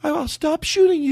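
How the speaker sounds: high falsetto woman's voice. Shown as a demonstration. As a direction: say it as the girlfriend in falsetto. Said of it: "a dumb woman's voice".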